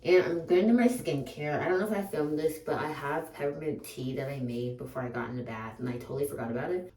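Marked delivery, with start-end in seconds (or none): 0.0-2.8 bathroom echo; talking in a tiled bathroom. Real, not acted. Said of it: "I am in my bathroom right now".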